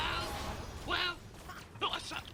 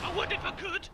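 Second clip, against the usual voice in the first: angry shout; 3 dB louder than usual. Acted. Caller shouts back.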